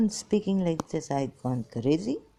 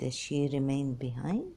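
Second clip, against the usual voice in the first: normal talking voice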